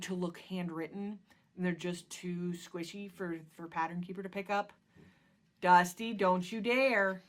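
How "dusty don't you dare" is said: sharp, loud call to the cat, slow on the last words; warning call. Real, not acted. Owner warning her cat Dusty away from the door frame, loud and stern. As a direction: stop the cat mid-scratch with your voice.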